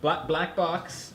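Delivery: very slow, spelling it out; slow and deliberate. Real, not acted. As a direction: drag each word. Repeated slowly after shout remark.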